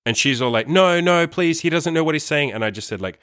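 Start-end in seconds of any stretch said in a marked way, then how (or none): 0.7-2.5 high-pitched imitation of desperate begging; frantic pleading. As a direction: plead in a much higher mock voice. Retelling her frantic pleading.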